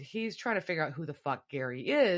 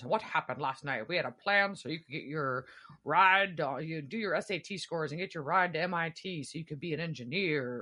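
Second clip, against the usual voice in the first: disappointed, let-down dad voice. Speaker acts out a dad talking to his kid, in a mock-disappointed dad voice. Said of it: "I don't know why I did that voice".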